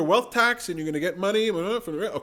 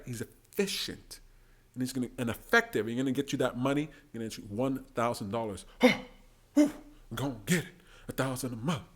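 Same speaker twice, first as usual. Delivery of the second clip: hushed mock pitch; 7 semitones lower, 5 dB quieter than usual. Mimicking Yang's pitch quietly.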